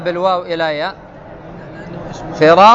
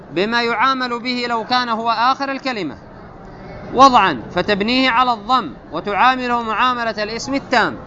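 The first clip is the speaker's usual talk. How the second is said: measured, raised recital of the classical grammar text; a higher, deliberate textbook reading; 4 semitones higher than usual. Acted. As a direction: read the rule out like a set text. Reads grammar text aloud.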